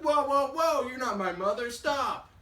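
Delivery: very high, loud panicked bird; storyteller's frantic baby-bird yelp; alarmed protest. Acted. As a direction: cry out as you're snatched up. Bird protests being picked up.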